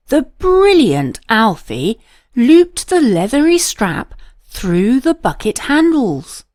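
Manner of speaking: plain reading voice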